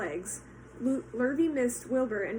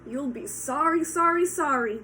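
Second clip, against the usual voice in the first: louder goose call; goose calling after him; 3 semitones higher, 5 dB louder than usual. Acted. Goose calling after Wilbur, louder. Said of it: "called the goose".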